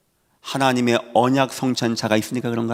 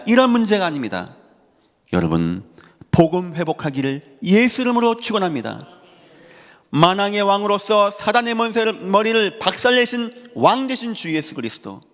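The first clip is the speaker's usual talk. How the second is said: raised, higher-pitched sermon delivery; preaching; 7 semitones higher than usual. Real, not acted. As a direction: drive each title home like a preacher. Preaches at full force. (힘주어 높여 외치는 설교조)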